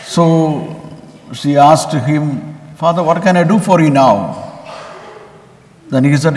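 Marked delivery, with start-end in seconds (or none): 2.8-4.3 higher, pointed question with a stress on now; growing impatience. Acted. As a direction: let a bit of impatience creep in. Receptionist asks a third time.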